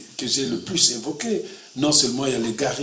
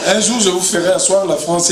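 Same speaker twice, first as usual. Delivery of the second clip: amused, louder and higher, laughing through it; 5 semitones higher, 5 dB louder than usual. Real, not acted. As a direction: tease them with a laugh in the voice. Jokes about judging his accent.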